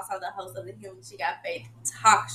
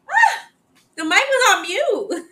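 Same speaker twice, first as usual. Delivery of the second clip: a sharp high cry, then a loud groaning complaint; exasperated wail; 13 semitones higher, 7 dB louder than usual. Real, not acted. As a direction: disbelief at her own mistake, half laughing. Exasperated at muted mic.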